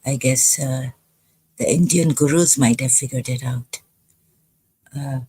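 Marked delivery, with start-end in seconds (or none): 1.6-3.8 dry sarcastic jab. Real, not acted. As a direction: say it with mock respect. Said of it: "that's a sarcastic remark for the Indian gurus".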